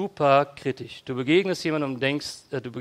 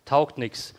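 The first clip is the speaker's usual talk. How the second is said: grumbling; slower than usual. Pretend.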